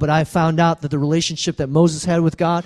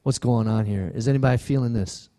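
mock confrontation; 8 semitones lower, 5 dB quieter than usual. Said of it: "get in somebody's face and say".

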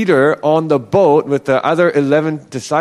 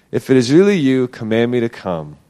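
measured, mildly doubting challenge, dropping at the end; skeptical testing; 4 semitones lower than usual. Retold or imitated. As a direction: imitate a doubter putting someone to the test. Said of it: "maybe he's, like, testing it out".

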